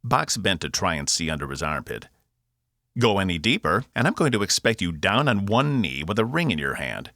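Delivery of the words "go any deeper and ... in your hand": lightly voiced Cockney robot, higher pitched; Cockney robot, cheeky. Box teases Cass probing under his arm, cheeky Cockney. Box's held Cockney character voice.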